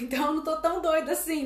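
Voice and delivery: amused, chuckling as she speaks; relieved laugh while talking. Real, not acted. Reacting amused to a viewer comment.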